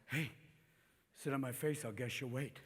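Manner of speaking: low, soft sleazy come-on; drunk pickup line. Acted. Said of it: "As a drunk, we'll come up to girls".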